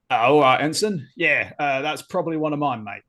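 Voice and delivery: wobbly Cockney, drifting toward Australian; attempted Cockney accent. Crewman owns up to an ensign about the spiders, attempted Cockney accent. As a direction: have a rough go at Cockney. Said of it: "can you do the Cockney accent".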